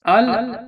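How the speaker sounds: al said clearly on its own; the article al. Shown as a demonstration. Teacher introducing the article to pupils, showing al. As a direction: say al slowly, the a short and the l still.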